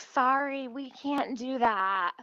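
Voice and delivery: mock apology, drawn out at the end; lady refusing. Server turning down a coffee request, lightly mock apologetic. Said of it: "So the lady's like".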